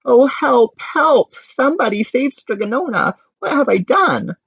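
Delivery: high, loud frantic pleading; frantic high call; panicked. A narrator's reading. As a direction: cry out for help in panic. Panicked cry for help.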